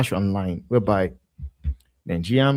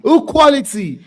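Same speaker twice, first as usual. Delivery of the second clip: sarcastic; 14 semitones higher, 8 dB louder, slower than usual. Real, not acted. Mocking a defender's quality.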